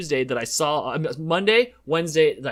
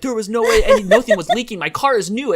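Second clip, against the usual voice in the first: louder mock protest at the mechanics; half-acted indignant rant; imagined argument; 5 semitones higher, 5 dB louder than usual. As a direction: argue back in your head, a bit louder. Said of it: "in my head, I'm fighting with these people".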